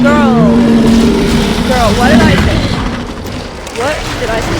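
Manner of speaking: mock-scolding Valley Girl; lightly hammed-up Valley Girl telling-off. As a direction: play a sassy Valley Girl laying down rules. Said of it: "I'll just do Valley Girl".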